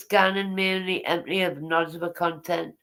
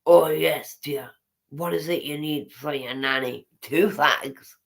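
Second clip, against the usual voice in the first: a mild, lower mock of a sweet old witch; creepy old shop witches; 5 semitones lower than usual. Reader imitating the creepy shop sisters selling fags, a lightly voiced sugary witch. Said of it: "Like witches looking down on you".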